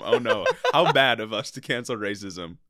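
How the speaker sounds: hammed-up fake alarm; sarcastic mock dismay. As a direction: play it as fake horror.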